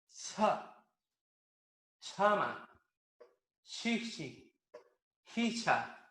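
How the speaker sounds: Aymara ch words, slow and careful; practice drill. Shown as a demonstration. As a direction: breathe hard on each ch.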